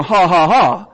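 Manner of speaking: mock laugh. Shown as a demonstration. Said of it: "basically taunting death".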